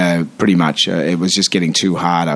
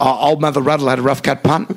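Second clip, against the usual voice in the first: elocution exercise; 5 semitones higher than usual. Shown as a demonstration. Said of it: "he gave me some exercises like".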